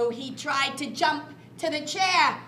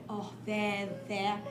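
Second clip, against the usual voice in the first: mother bear comforting her cub; soothing mother. Acted. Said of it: "And Mommy said".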